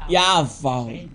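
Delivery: Yavah said low and evenly, ending in an open ah; right pronunciation. Shown as a demonstration. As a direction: model the word Yavah as correct. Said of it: "That's the right pronunciation".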